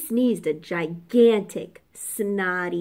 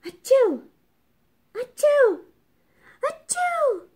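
sneezes climbing higher each time; three big rising sneezes; sneezing; 5 dB louder than usual. A narrator's reading. Pigs sneeze one after another, climbing higher. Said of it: "sneezed the three little pigs".

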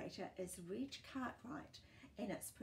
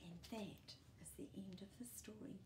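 fast, much softer wind-down whisper; closing whisper; 10 dB quieter, faster than usual. Acted. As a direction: whisper the ending gently. Closing the storybook.

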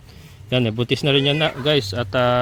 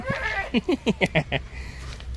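high giggle; 11 semitones higher, 7 dB quieter than usual. Acted. Laugh in goat voice.

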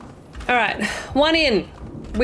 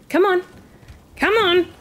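strained urging; effort grunt; 9 semitones higher than usual. Real, not acted. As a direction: squeeze it out while lifting. Urging while pushing barrel.

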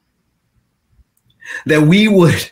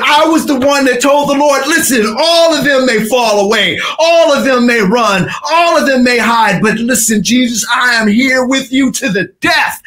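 bold vow; 4 semitones higher than usual. Acted. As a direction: promise with swagger. Peter's boastful promise recalled.

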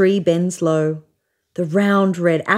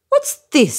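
frowning bear; 8 semitones higher than usual. A narrator's reading. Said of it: "says the big brown bear with a frown".

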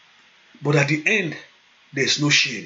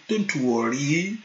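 tender fatherly calm; gentle reassurance. Retold or imitated. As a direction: comfort a worried child.

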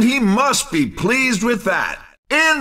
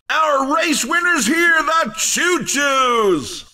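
excited winner call; 4 semitones higher than usual. Acted. Announcer presenting the winners.

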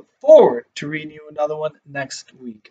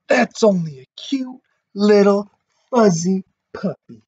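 lightly voiced burglar; 5 semitones higher than usual. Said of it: "whispered the other burglar".

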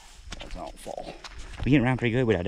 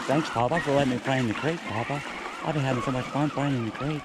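put-on higher, childlike thank-you; voicing the truck as a kid; 6 semitones higher than usual. The truck thanking Papa for the creek, higher kid voice. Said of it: "He's like".

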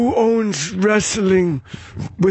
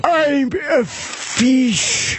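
slow silly voice; 5 semitones higher, much slower than usual. Pretend. Voicing the horse in photos.

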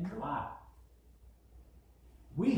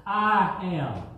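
loud declaration; 6 dB louder than usual. Acted. Jesus declares himself.

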